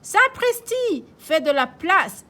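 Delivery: put-on high loud shouting old grandpa. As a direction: bellow for room on the sled. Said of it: "crie grand-père Léo". (grand-père qui crie fort)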